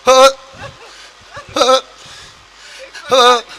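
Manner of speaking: grandmother's short winded huffs; acted puffing for breath; breathless gasps. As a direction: huff separately, with long gaps. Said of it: "सांस फूल रहे हैं".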